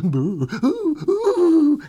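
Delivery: slow, spooky ghost-story drawl; hammed-up spooky voice, stretching every word; trying to be scary. DJ spooking radio listeners with a ghost song, mock scary. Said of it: "I'm just trying to be scary".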